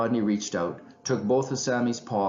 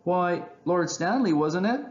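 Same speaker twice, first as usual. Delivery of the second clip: high, chirpy little voice; chirping chipmunks; 9 semitones higher than usual. A narrator's reading. Two tiny chipmunks answering the owl, chirping. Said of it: "two tiny chipmunks chirped".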